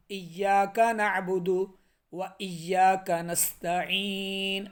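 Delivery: ایاک with a short clear ای, not stretched, recited slowly; slow Quranic recitation, ایاک crisp; correct recitation. Shown as a demonstration. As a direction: recite ایاک نعبد و ایاک نستعین slowly, clean ای.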